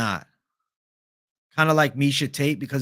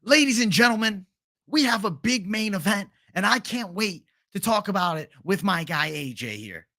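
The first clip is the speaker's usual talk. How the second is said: higher showman announcer voice; MMA guru impression; 5 semitones higher than usual. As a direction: open like a hyped show host. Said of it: "Guru was spot on".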